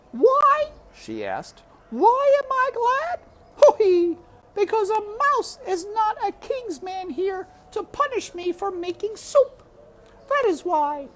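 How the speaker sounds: high, loud cook speaking through laughter; laughing cook. A narrator's reading. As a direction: laugh with relief between words. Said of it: "sound of laughter".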